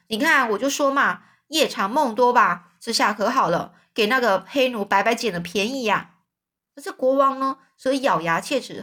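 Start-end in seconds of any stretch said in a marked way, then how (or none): 0.1-6.2 grumbling to his partner, lightly played; a mild told-you-so gripe; complaining. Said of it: "抱怨说". (公爵向国王抱怨，带点埋怨语气)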